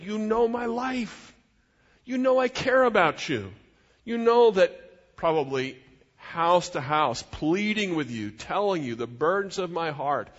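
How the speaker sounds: impassioned but controlled appeal; earnest appeal. Acted. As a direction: plead your case to people you care for. Preacher voices Paul's earnest appeal.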